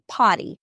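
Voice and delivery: "potty" said with no R, pah-tee; drops the R in "potty"; Boston dropped R. Shown as a demonstration. Lawyer showing how her Boston professor says party, R dropped. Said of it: "they say".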